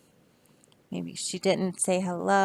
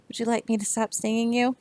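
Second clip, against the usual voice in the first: quick bee voice; 2 semitones higher, faster than usual. Acted. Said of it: "the bee is saying".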